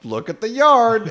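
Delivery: loud, slow exclaiming; mock shout at the ruined yard; mock outrage. Imitating a loud complaint about the yard. Mocking the ham-fisted scene.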